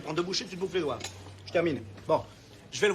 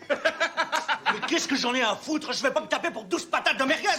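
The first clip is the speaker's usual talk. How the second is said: heated laughing outburst; 4 semitones higher, 3 dB louder than usual. Acted. Serge flares up over his money.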